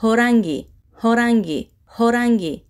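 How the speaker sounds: "Ҳоранги" evenly, with a falling end; pronunciation demo. Shown as a demonstration. Teacher has learners pronounce together, "Ҳоранги" modelled with a fall. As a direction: model "Ҳоранги" three times in the same tune. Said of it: "Якҷоя талаффуз мекунем".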